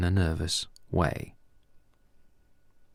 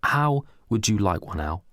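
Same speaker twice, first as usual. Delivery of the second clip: mild demonic smile; 2 semitones higher than usual. Acted. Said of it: "said Reese with a demonic smile".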